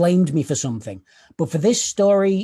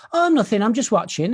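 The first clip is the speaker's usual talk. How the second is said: lightly voiced little girl, pitched up; imitating young daughter; 5 semitones higher than usual. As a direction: play a toddler's airy denial, higher. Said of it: "my daughter. She was around three".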